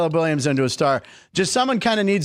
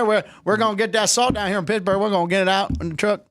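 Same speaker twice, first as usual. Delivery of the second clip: higher-pitched put-on Pittsburgh accent; 3 semitones higher than usual. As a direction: imitate a Pittsburgh local. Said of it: "That's a little better".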